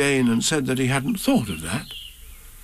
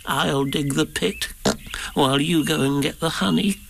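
lightly voiced Piglet; 3 semitones higher than usual.

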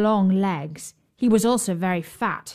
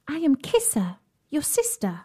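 higher magical cat voice; 6 semitones higher than usual. Acted. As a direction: speak as a fairy-tale cat. Cat speaks as sister.

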